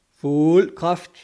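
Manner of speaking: loud, urgent order; forceful captain's command; shouted command. A narrator's reading. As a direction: call it down to the engine room. Captain orders full power to engine room.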